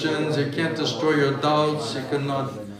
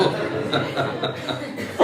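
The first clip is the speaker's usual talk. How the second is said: amused laugh; 4 dB quieter than usual. Real, not acted. Speaker laughs at own joke.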